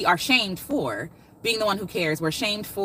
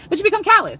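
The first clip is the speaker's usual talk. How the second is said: nervous emphatic repeat; 12 semitones higher, 7 dB louder, faster than usual. Real, not acted. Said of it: "I'm a little nervous".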